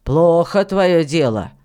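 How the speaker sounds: lightly voiced miller scolding a boy, emphatic; reproving elder, forceful on the questions; stern miller, reproachful. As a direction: scold the boy firmly, loudly.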